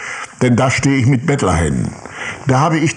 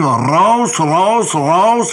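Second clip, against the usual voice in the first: retold yell; 5 semitones higher, much slower than usual. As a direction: throw him out with a half-acted bark. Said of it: "richtete sie sich auf und brüllte". (nachgespieltes, leicht lauteres Brüllen)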